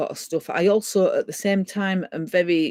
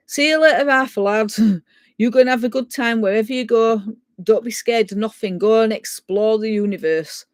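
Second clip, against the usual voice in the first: raised, mildly projected goodbye; called-out farewell; 2 semitones higher than usual. Retold or imitated. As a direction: call out a fond send-off, re-enacted. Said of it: "I called out".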